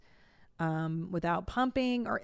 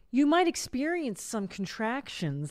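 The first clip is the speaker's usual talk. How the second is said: soothing book voice; 4 semitones higher than usual. Retold or imitated. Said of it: "the labor books would be like".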